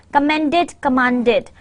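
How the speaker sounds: "Commended" with short e, then "commanded" with open a; minimal pair. Shown as a demonstration. Teacher reads minimal pairs to learners, distinct vowels. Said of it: "some minimal pairs".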